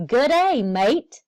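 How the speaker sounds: a loud, bright, high "Good day, mate" with the "mate" said as may-t; cheery greeting. Acted. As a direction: call out hello to the class like a tour guide landing. Cheery greeting on arriving in Australia.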